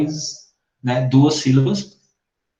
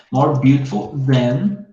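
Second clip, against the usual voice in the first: slow model phrase; much slower than usual. Shown as a demonstration. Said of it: "models the sentence slowly".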